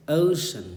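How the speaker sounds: teacher's careful, drawn-out "ocean" with gliding first vowel; model pronunciation. Shown as a demonstration. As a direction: say "ocean" as OH-shun. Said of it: "ऐसे बोलते हैं".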